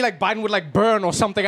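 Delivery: normal talking voice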